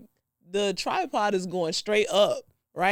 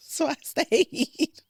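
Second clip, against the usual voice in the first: slow emphatic; 6 semitones higher, much slower than usual. Real, not acted. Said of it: "dramatic slow repeat".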